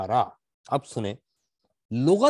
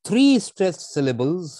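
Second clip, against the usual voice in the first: each syllable hammered out slowly, louder and higher; slow emphatic stress; 6 semitones higher, 6 dB louder, much slower than usual. Shown as a demonstration. Teacher stresses the rule for his students. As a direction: spell out the three stresses slowly and loudly.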